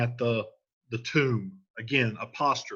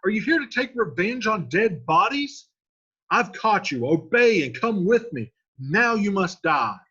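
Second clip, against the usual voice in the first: much higher and louder, hollering; Paris hollering; 8 semitones higher, 6 dB louder than usual. Retold or imitated. Paris confronting Romeo, loud challenge. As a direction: shout the paraphrase like Paris. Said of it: "So he's basically saying".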